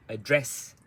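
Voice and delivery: short first syllable, punched second in Address; rhythm demo. Shown as a demonstration. Teacher shows rhythm of the word, Address quick into DRESS. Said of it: "so it's fast".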